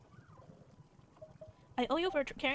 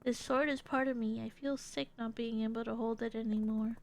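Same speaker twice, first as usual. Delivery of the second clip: even, reflective character monologue; earnest fighter; slower than usual. Acted. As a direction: tell the backstory soberly.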